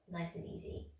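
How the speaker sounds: softly whispered encouragement. Real, not acted. Instructor easing class after pulses, whispered. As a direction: breathe the words out gently.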